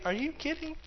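high, incredulous scoffing voice; mocking doubter. A doubter laughing at someone's faith, high and scoffing. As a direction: sneer at the idea like a doubter. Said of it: "someone's gonna just laugh and say".

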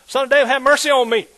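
loud cry for mercy. Pretend. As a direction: call out for mercy. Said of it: "He said".

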